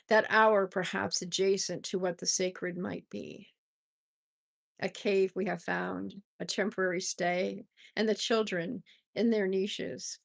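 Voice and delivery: calm, measured poetry reading; poem reading. Acted. Host reading a family poem, gently.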